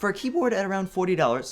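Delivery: voice cracking mid-phrase. Reviewer explaining a keyboard's price range, with a voice crack. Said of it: "sorry, little voice crack".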